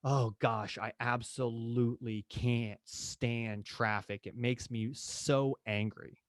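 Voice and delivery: slow, understated annoyed client; a hint of complaining about traffic; mild mock frustration. Client complaining about traffic, mildly annoyed. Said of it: "emotional language".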